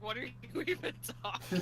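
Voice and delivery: giggling through the quote; laughing quote. Retold or imitated. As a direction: repeat the line while laughing. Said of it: "and then it's just like".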